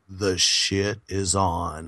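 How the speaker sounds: deep, slow trailer narrator line; movie trailer voice. Real, not acted. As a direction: drop low and slow like a trailer. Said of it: "you could have been a Trailer Man voice".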